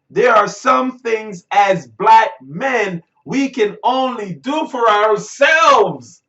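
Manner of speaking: slow, deliberate declamation of a quote; emphatic quotation. Retold or imitated. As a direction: punch out each phrase, stretching the last word. Reads out speech quote emphatically.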